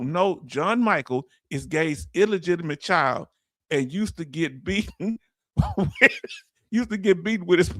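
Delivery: reading a joke while cracking up; can't hold back the giggles; laughing through it. Real, not acted. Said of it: "I'ma say it with a straight face".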